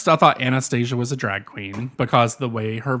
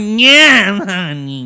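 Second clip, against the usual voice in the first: high, loud "Yeah" dropping into "honey"; sassier impression; 7 semitones higher, 7 dB louder, much slower than usual. Correcting the co-host's impression, high and sassy. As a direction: push the sass up high. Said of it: "But it's not like that".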